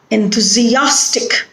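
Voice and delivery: "enthusiastic" with AS stressed. Shown as a demonstration. Teacher confirming the stressed syllable, "enthusiastic" stressed on AS. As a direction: lean on AS in "enthusiastic". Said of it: "the stress is on".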